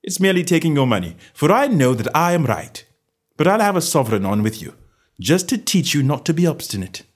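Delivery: quick, confident wager; a hint of a smug gentleman; lightly voiced cocksure detective. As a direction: teach the stallholder a lesson. Holmes takes the bet.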